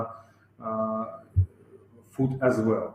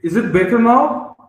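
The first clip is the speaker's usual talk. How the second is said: raised, higher-pitched voice checking the volume; talking louder; 10 semitones higher, 8 dB louder than usual. Real, not acted. Presenter checks with host after being asked to talk louder, speaking up. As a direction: speak up so listeners can hear you. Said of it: "Can you talk a bit louder".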